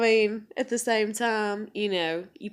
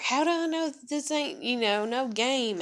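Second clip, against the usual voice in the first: higher, mocking quote of his doubts; mock doubting man; 5 semitones higher than usual. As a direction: imitate him whining his suspicion. Mocks his doubting question.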